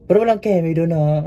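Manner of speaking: a pointed no-funny-business warning; emphatic. Real, not acted. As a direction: insist firmly that nothing happened. Stressing nothing happened between them.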